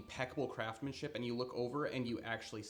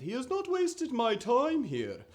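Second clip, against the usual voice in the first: much higher, loud hurried merchant voice; higher, louder anxious merchant; pleading merchant; 9 semitones higher, 9 dB louder than usual. Acted. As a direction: beg the lord to stay. Merchant pleading not to leave.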